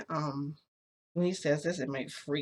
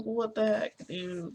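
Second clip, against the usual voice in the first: loud, high-pitched disbelief; incredulous outburst; 7 semitones higher, 3 dB louder, slower than usual. Retold or imitated. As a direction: blurt it out high and loud, dropping off at the end. Startled reaction at being cradled.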